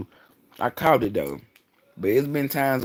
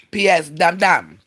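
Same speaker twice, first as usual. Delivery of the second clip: catchphrase; 5 semitones higher, 7 dB louder than usual. Acted. Catchphrase called out.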